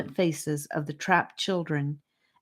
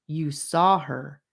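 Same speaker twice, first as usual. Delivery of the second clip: grave; slower than usual. Acted. Rivers telling Charlie what he saw, slow and grave. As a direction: say it heavily, slowly. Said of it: "said Rivers gravely".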